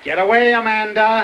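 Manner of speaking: shouting. Acted. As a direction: bark the order at her. Armed husband orders wife aside.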